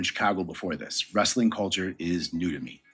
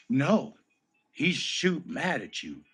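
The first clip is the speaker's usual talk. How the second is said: lightly voiced, mildly higher teasing locker-room buddy; a hint of a coworker gleefully ribbing him; 6 semitones higher, slower than usual. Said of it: "from Heath Slater again".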